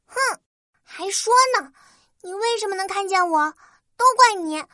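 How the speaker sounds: high, fast grumbling fairy; huffy little fairy complaining; tiny tinkling fairy voice. Acted. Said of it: "越说越生气".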